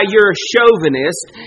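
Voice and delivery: loud accusing cry; mock accusation. What she doesn't cry to Jesus, accusing and loud. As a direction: throw the charge at him. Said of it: "She doesn't cry".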